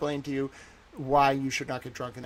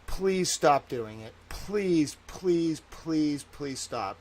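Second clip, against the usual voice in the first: begging; much slower than usual. Real, not acted. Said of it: "I'm begging you".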